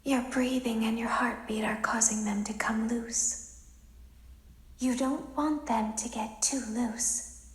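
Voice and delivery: secretive whisper of a warning. Acted. Robot girl whispering a warning to the technician. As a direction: hush it like a secret only they may hear.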